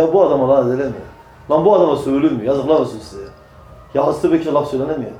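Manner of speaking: ordinary talk, nothing marked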